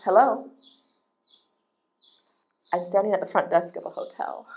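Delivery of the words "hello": mock flat reply. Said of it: "someone responds".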